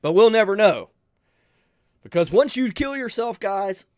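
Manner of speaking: fighting back tears mid-sentence; choked up. Real, not acted. Telling viewers about his grandfather's suicide, getting choked up. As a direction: voice rising as emotion breaks through. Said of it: "I get emotional".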